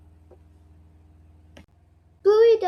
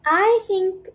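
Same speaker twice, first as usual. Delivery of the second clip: declaring; 3 dB louder than usual. Acted. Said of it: "declares Bluey".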